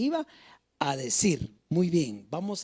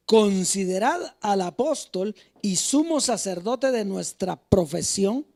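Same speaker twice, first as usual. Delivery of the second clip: emphatic, measured scripture reading; 3 dB louder than usual. Acted. Preacher reading Hebrews to the church, emphatic scripture reading. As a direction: read the verse out firmly to the congregation. Reads scripture aloud to congregation.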